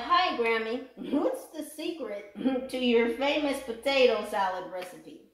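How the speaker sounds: reading the card message while breaking into laughs; laughing through it. Real, not acted. Laughs between the words. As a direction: reader to Libra, giggling through the silly message.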